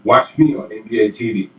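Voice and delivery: energetic tagline. Shown as a demonstration. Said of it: "as much energy you can".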